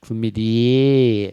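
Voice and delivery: slow chlamydia ending in a long "ee-yeah". Shown as a demonstration. Demonstrating the E-A sound, chlamydia ending in "ee-yeah". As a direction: stretch the E-A at the end of chlamydia. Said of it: "like, an E A".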